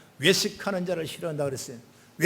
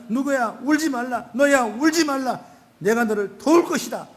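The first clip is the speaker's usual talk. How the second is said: a lightly voiced Jesus, calling out louder and higher; Jesus' comforting voice; 5 semitones higher, 5 dB louder than usual. Jesus speaks to the grieving believer, fervently calling out. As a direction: proclaim the comfort with fervour. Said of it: "이렇게 말씀하신 거예요".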